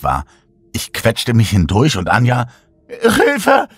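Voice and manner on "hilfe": high desperate scream; screaming for help. Acted. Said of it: "schrie Anja".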